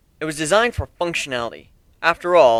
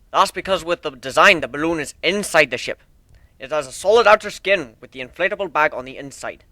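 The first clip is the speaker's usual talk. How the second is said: lightly voiced proud shipbuilder; 2 semitones higher than usual. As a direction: show off your ship like a proud craftsman. Steelhorn explains the ship.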